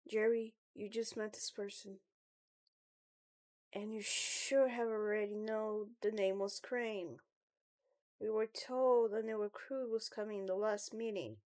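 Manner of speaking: lightly voiced puzzled club member; Andy. Andy corrects Jerry, puzzled.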